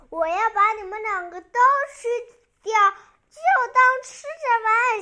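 loud, mildly menacing monster threat; monster's roar. Acted. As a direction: play a roaring monster, pushing the volume. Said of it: "怪兽咆哮道". (略带威胁地模仿怪兽咆哮)

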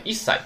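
一塞 with a short held gap before 塞; geminate sound change. Shown as a demonstration. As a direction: double the s in 一塞. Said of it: "有促音，变成促音了". (一塞，促音停顿一拍)

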